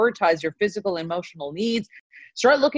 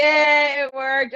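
happy cheer; 5 semitones higher, 6 dB louder, much slower than usual. Real, not acted. Toast finally worked.

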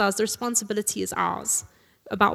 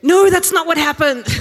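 much higher, louder, laughing shout; laughing protest; 8 semitones higher, 11 dB louder than usual. Real, not acted. Preacher laughing answers the congregation calling out her theology. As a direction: burst out laughing denying it. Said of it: "call out my bad theology".

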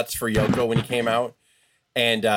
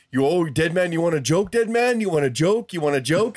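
lightly voiced winded wrestler, pitched higher; out-of-breath Yoko; 4 semitones higher than usual. Retelling Yoko's taunts to Undertaker mid-match, mock winded taunt. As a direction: imitate a winded opponent taunting, slightly raised voice. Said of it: "Yoko would be out of breath going like".

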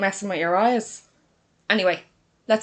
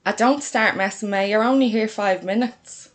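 louder, lightly exasperated sister; mild scolding; 2 semitones higher, 5 dB louder than usual. Acted. Lily telling May to stop messing, mildly scolding. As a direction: tell her off without real anger.

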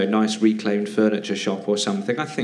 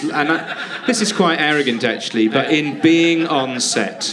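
raised, slow and laughing; gushing; 5 semitones higher, 4 dB louder, slower than usual. Real, not acted. Telling the host about meeting Clooney, gushing. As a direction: savour the story, half laughing.

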